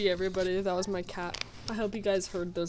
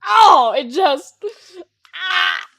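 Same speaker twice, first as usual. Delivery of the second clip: loud, higher outburst of disbelief; exasperated rant; 6 semitones higher, 14 dB louder than usual. Real, not acted. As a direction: cry out, utterly baffled and fed up. Exasperated rant at Valley Girl talk.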